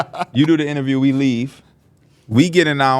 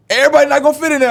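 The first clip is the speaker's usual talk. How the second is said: mock stylist voice; 13 semitones higher, 4 dB louder, much faster than usual. Retelling stylist's remark, high voice.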